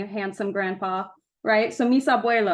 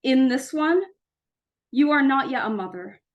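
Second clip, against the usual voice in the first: measured poem recital with pauses between phrases; spaced, deliberate spoken-word delivery; poetry reading. Acted. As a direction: read it as a poem, lifting each opening phrase. Reads own poem to audience.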